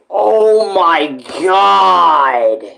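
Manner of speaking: ordinary talk, nothing marked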